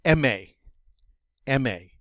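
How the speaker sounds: aimer as "M A", two clear syllables; French pronunciation demo. Shown as a demonstration. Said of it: "this one is pronounced".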